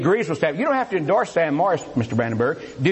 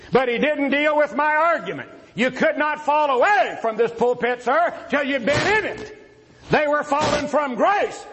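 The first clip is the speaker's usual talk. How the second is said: raised pitch, driving emphatic delivery; forceful debate preaching; 6 semitones higher than usual. Real, not acted. Debater rebutting his opponent from the pulpit, forceful preaching. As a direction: press the point home like a pulpit debater.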